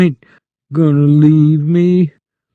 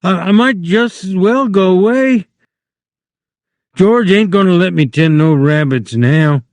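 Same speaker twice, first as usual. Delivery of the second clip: higher, lightly voiced despair; mild hopeless whine; dejected Lenny; 8 semitones higher, 3 dB louder than usual. Lenny gives up on the rabbits, lightly dejected.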